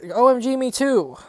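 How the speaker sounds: put-on bright gushing fan girl reply; mock happy. Happy teen replying to new goth friend, gushing. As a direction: gush it like a thrilled teen. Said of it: "I replied happily".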